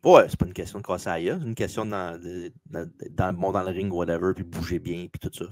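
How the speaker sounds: glitchy robot voice; robot voice from a bad connection; half robot voice. Real, not acted. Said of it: "il y a eu une voix de robot".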